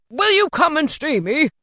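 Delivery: put-on high, loud old man's question; eager invitation. A narrator's reading. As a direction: invite him with gusto. Scrooge eagerly invites the gentleman.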